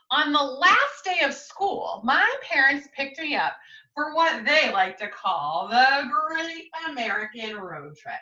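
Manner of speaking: lively picture-book reading; story narration. Acted. Teacher reading the class a storybook, lively and clear. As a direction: read it aloud to young listeners.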